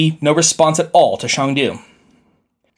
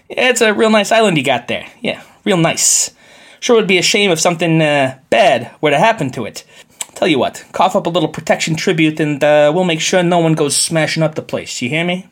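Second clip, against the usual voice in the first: lightly voiced mobster shakedown; a hint of a smooth gangster threat; mafioso voice. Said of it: "reads much more like a mafioso extortion letter".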